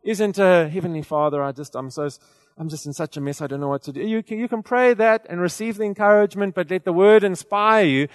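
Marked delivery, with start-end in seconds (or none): 0.7-4.0 helpless whiny prayer. Retold or imitated. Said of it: "the correct prayer isn't".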